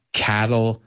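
"Cattle lack" drawn out slowly, split in two; slow split words. Shown as a demonstration. A teacher slowly splits "Cattle lack" to explain the joke. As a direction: stretch "Cattle lack" to reveal the pun. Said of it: "do you get it now?".

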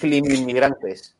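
Climinmigrantes dicho despacio, sílaba a sílaba; slow repeat. Shown as a demonstration. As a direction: repeat Climinmigrantes slowly and clearly. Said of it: "¿Cómo?". (Climinmigrantes, lento y marcado)

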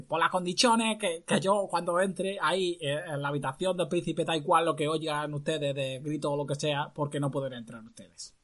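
a hint of the clown doctor. Disguised doctor sets conditions for court, clown voice. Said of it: "Aunque hablaba con esta voz".

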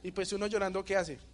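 loud, animated retelling. Retold or imitated. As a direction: build up the brawl with energy. Relata pelea llorando. (relato de pelea, con energía y más fuerte)

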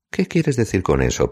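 offended. A narrator's reading. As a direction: take mild offence, drawing the question out. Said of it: "preguntó ofendido".

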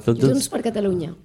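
"Junts per Catalunya" dicho despacio como modelo en catalán; enseña "Junts per Catalunya" lento y claro; pronunciación catalana. Shown as a demonstration. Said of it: "te puedo decir lo que quieras en catalán". ("Junts per Catalunya" en catalán, pausado)

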